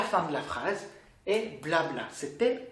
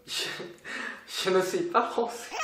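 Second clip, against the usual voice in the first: laughing reply. Pretend. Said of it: "Je vais dire".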